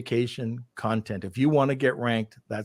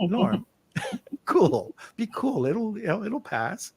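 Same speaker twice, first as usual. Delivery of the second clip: higher, softening as it goes; imitated cool calm; 9 semitones higher than usual. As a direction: mimic someone soothing a panicker. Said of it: "you're always cool and calm".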